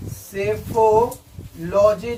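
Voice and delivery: सेफोलॉजी drawn out in parts; सेफोलॉजी spaced out for learners; slow repeat. Shown as a demonstration. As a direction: say सेफोलॉजी slowly, part by part. Repeats answer slowly for learners.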